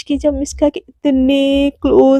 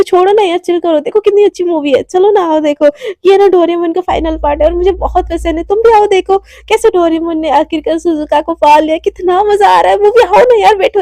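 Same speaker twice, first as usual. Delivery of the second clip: coaxing whine; 3 semitones higher, 3 dB louder than usual. Acted. Lazy Mishka coaxing friend to movie.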